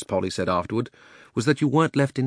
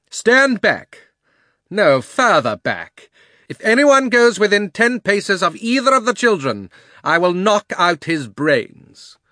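loud, high menacing witch; commanding witch; 10 semitones higher, 7 dB louder, slower than usual. Acted. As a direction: threaten them like a fierce witch. Witch threatens the crowd.

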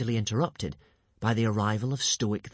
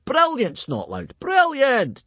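high, loud cheer; 14 semitones higher, 7 dB louder, slower than usual. A narrator's reading. Gobber cheers Snotlout's insults, loud and high. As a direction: cheer him on with big delight. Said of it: "cheered Gobber".

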